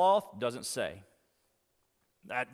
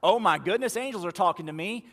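louder, rushed "Oh my goodness"; mock amazed; 3 semitones higher, 5 dB louder, faster than usual. Preacher acts out the awe Mary never shows. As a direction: gush like someone stunned by angels. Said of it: "she says not".

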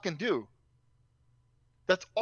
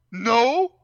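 put-on child's voice; 3 semitones higher, 7 dB louder than usual. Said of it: "daughter answers".

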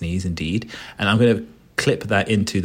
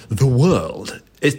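slow dramatic narration; 4 semitones higher, 4 dB louder, much slower than usual. Shown as a demonstration. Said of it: "let me do it one more time".

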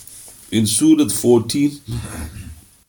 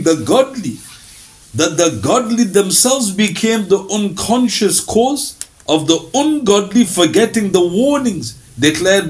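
formal reading; 5 semitones higher, slower than usual. Acted. Reads out commentary on verse.

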